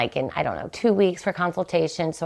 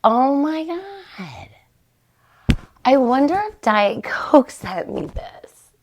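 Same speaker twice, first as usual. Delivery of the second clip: excited; 7 semitones higher, slower than usual. Retold or imitated. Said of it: "And I was like".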